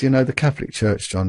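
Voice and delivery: imitating a bishop's gentle Irish accent; lightly put-on soft Irish accent. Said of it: "in this soft Irish accent".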